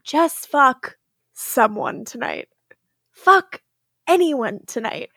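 mock mirror pep talk. Stefan coaching himself in the mirror, mock pep talk. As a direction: pump yourself up in the mirror, half joking. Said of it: "he was like".

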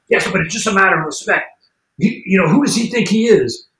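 hammed-up indignant friend; imitating angry rant. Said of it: "he's getting really mad".

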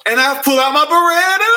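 high, melodramatic sung line; R. Kelly imitation. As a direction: ham up the big reveal. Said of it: "he's like".

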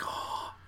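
airy mock gasp of shock; imitated gasp. Podcaster imitating Carter's look in the theater, shocked gasp. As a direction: imitate someone gasping in disbelief. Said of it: "other people that kinda gasped".

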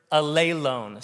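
"Alelone" said a-LAY-lone; stress on second syllable. Shown as a demonstration. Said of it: "second accent is where you put the accent".

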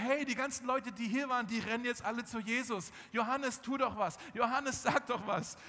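hey, do something, press him; urgent pleading. Acted. Disciples urging Johannes.

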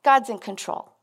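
offhand, careless shrug of a line; flippant. Retold or imitated. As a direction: toss it off like it doesn't matter. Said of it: "It was just so flippantly".

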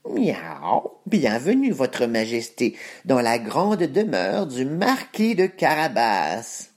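cat voice. Acted. Cat greets the king.

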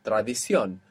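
"Tradición" stressed on the final CIÓN; stress on written accent. Shown as a demonstration. Teacher modelling a word that breaks the rule, "Tradición" stressed on CIÓN. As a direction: lean on the last syllable of "Tradición". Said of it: "where you should be stressing".

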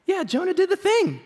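bright, high mock celebration of Jonah; mock cheer. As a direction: cheer it like a kid who did his chores.

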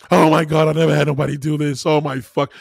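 mock moaning ecstasy. Imagining Kim in bed.

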